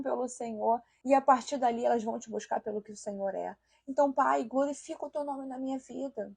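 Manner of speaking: hushed, intimate prayer to the Father; a preacher modelling a Scripture-based prayer, hushed and earnest; sample prayer. Shown as a demonstration. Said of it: "por exemplo, eu vou falar".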